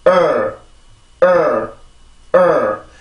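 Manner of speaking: 으 as English "er", tongue tip curled slightly; isolated English "er" sound; r-colored schwa. Shown as a demonstration. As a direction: say 으 as a schwa gliding into R, jaw still. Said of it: "슈아 발음 플러스".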